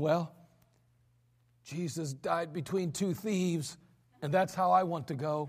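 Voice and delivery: put-on frail, faint, very weak, feeble old preacher voice. Telling a story, the speaker quotes the old preacher's answer; imitating a very weak tone. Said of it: "in a very weak tone".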